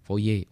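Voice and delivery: Fourier as "fo-yé", no r; French pronunciation. Shown as a demonstration. Learner discovering how the name is read, Fourier as "fo-yé". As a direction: say Fourier ending in "yé". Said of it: "oh gitu bacanya Fourier".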